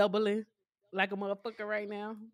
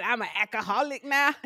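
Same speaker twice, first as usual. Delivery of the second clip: laughing hard; 3 semitones higher than usual. Real, not acted. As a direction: laugh while quoting. Laughing through movie quote.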